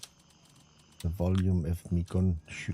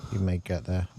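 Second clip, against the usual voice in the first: out of breath. Real, not acted. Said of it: "'cause I'm out of breath".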